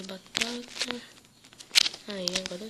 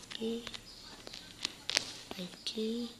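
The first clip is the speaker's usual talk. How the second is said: whisper; 9 dB quieter, slower than usual. Real, not acted. Muttering to himself while playing.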